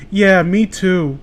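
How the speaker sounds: flat deadpan. Retold or imitated. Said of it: "little unironically says".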